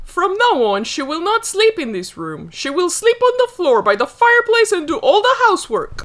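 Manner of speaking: high, gloating, laughing through the words; cruel laughing. Acted. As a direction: laugh as you hand down the punishment. Stepmother banishes Cinderella, laughing.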